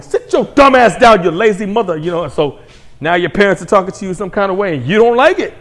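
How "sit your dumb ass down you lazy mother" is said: loud scolding mom voice; mock angry mama. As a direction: bark it like a fed-up single mom. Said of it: "this thing going home".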